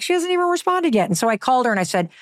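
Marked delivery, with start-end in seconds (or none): 0.0-1.1 exasperated. Retold or imitated. Exasperated reaction.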